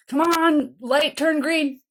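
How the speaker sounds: mock impatience at a red light; impatient driver. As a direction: urge the light to change.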